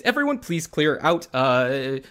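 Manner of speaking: mildly frantic pleading, loud at the start; nervous physician keeping everyone at a distance; a touch of germ-fearing fluster. Acted. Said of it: "looks at all of you very frantically and says".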